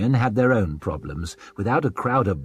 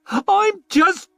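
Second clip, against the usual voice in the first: cut-off plea; 5 dB louder than usual. A narrator's reading. Cut off pleading.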